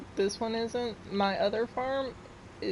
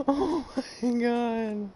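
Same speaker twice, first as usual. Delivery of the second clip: apologetic laughter; slower than usual. Real, not acted. Apologising to viewers for laughing so much, giggly. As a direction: catch your breath while apologising for laughing. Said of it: "sorry for laughing so much".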